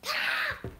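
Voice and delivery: high loud playful pop; shouted pop. Pretend. Child adding the chair breaking sound, loud. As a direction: yell the pop.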